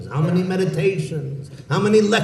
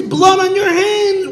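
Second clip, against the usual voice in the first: higher, slower, dragged-out accusation; accusing, slower; 5 dB louder than usual. Acted. Community head repeating his accusation, slower and higher. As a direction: drive it home slowly. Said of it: "rebuking him and chastising him".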